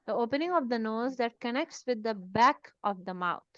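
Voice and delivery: spells out the definition word by word, slowly; slow dictation. Shown as a demonstration. Teacher dictating a definition to students, slow and deliberate.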